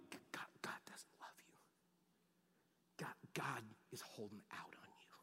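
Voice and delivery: hushed, breathy whisper in one ear; sly whispered lie; enemy's whisper. Acted. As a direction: whisper it like a tempter at your shoulder. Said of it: "that's being whispered in one ear".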